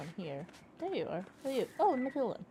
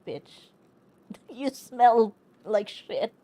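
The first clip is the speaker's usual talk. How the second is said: mock sassy nun; 10 dB louder, much slower than usual. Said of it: "and she's like".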